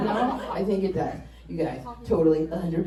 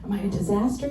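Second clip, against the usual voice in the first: whispered doubt; 5 dB quieter than usual. Retold or imitated.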